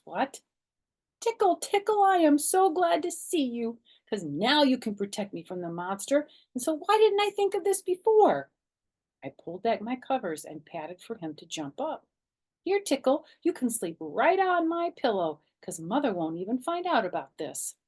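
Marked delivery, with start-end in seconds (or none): 1.2-8.5 put-on high, loud, delighted child calling her dog; excited child. A narrator's reading. Girl greets her dog Tickle with high excitement. 12.6-17.8 put-on excited child. A narrator's reading. Child invites dog onto bed.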